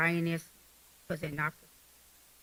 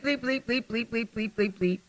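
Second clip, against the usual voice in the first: mock cussing; 2 semitones higher than usual.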